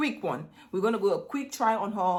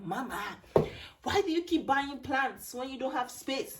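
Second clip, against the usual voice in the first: complaining daughter; 5 semitones higher than usual. Retold or imitated. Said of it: "she's complaining like".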